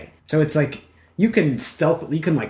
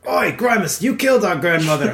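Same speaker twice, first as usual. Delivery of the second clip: ogre voice; 3 semitones higher than usual. Acted. Ogre reminds his brother of grandmother, lightly voiced.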